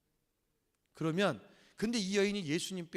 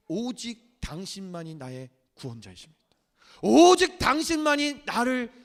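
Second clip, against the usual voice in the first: heartfelt confession; 6 semitones higher, 9 dB louder than usual. Retold or imitated. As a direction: pour out total trust, rising to a cry. 그 고백인 거예요. (조용히 시작해 높고 크게 간절한 고백으로)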